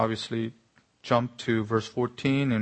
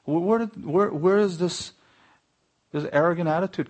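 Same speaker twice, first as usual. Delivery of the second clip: indignant disbelief; 6 semitones higher, 3 dB louder than usual. Real, not acted. Indignant question after sarcasm.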